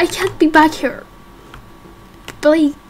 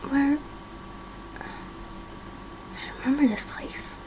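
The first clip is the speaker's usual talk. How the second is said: slow, breathless realisation; slow whispered recognition; hushed whisper; 15 dB quieter, much slower than usual. Acted. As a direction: barely voice it, slowly.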